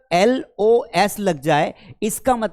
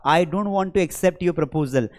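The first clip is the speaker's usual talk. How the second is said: slow example; much slower than usual. Shown as a demonstration. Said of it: "पर मैंने कहा".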